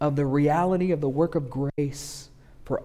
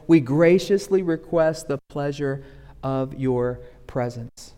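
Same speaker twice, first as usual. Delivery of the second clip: formal invite; 2 semitones lower than usual. Retold or imitated. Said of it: "one that says".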